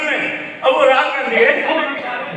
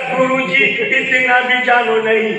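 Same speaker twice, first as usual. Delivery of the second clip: poem recital. Shown as a demonstration. Recited verse with laughter.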